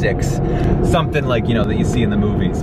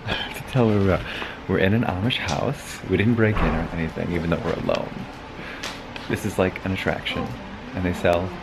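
speaking softly so the Amish won't notice; quietly sneaking through the house; hushed; 3 semitones lower, 5 dB quieter than usual. Real, not acted. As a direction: keep it down, a hushed tour voice. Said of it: "so let's be quiet".

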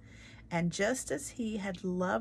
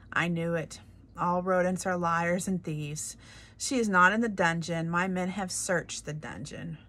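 angry king; 5 dB louder than usual. Acted. King angrily accusing the mouse.

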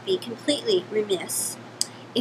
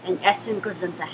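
put-on Yiddish accent; 4 semitones lower than usual. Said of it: "my name is Sylvia Goldenberg".

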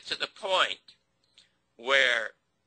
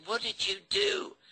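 retold scream; 7 semitones higher than usual. Producer confronting the show's owner by phone, retold scream. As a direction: reenact screaming at someone down the phone. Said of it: "And I screamed at him".

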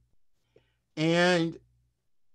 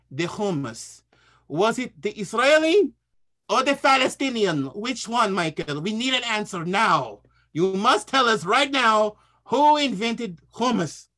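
demanding chef; 2 semitones higher than usual. Retold or imitated. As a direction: press him hard for an answer. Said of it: "So the Palestinian guy goes".

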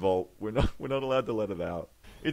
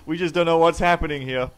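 news reporter; 4 semitones higher, 5 dB louder than usual. Acted. Mock live news report.

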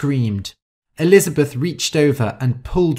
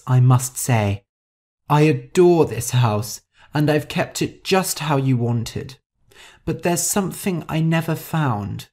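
Rosa's pleading request; 2 semitones higher than usual. Acted. Rosa asking her father's ghost about the lost painting, careful request. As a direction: make a careful, lightly voiced request.

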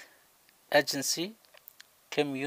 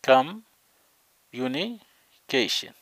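very slow, louder, every syllable stretched; slow drawn-out word; 5 dB louder, much slower than usual. Shown as a demonstration. Teacher to class, drawing the long word out slowly. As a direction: stretch it so students can copy. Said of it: "قسموها إلى ثلاثة أجزاء".

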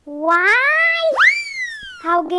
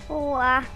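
sleepy yawn; 4 semitones lower than usual. Acted. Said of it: "tô morrendo de sono".

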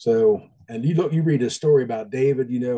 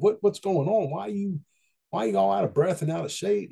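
higher, lightly voiced curious stranger; puzzled hunter; 7 semitones higher than usual. Joke's hunter quizzing the panting hillbillies, pitched up. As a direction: ask it pitched up, half-amused.

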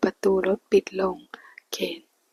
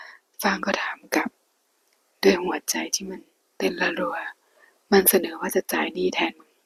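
hushed storyteller reading a Thai romance aloud; whispered story reading. A narrator's reading. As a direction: read the novel in a hushed whisper.

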